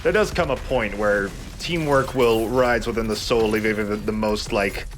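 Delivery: a touch of grand orator, half-hearted; mildly mock-poetic musing; attempted poetic line. Shown as a demonstration. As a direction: reach for something profound and fall short. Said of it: "I tried to make that sound, like, poetic".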